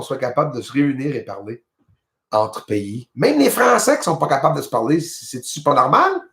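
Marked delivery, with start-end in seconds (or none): none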